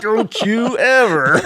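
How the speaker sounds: loud, high, drawn-out scolding; high-pitched mock yell at a horse. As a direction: imitate a furious telling-off, stretching every word. Doyle angrily confronting horse, quoted.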